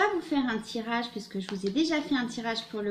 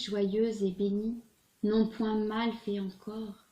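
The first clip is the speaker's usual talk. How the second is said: measured poetry recital with distinct pauses between phrases; poem reading. Acted. Tarot reader reading a Hugo poem to her viewers, poem recital. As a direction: recite the verse, lifting line openings, letting line ends fall.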